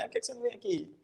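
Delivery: high, soft teasing question; ironic taunt. Acted. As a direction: goad them lightly. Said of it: "Ele tá ali ironizando com o outro".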